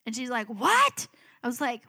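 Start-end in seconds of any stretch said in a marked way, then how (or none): 0.5-1.1 high, loud shocked yelp; freaking-out sister. Retold or imitated. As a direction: imitate an alarmed sister's shriek. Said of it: "starts freaking out".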